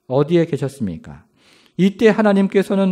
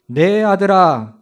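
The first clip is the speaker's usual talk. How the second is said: wailing. Acted. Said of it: "이렇게 울부짖기를 시작합니다".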